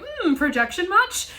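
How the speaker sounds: high, slow, knowing sarcasm; sarcastic quip. Retold or imitated. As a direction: drawl it out as a smug aside. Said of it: "looking at the screen going like".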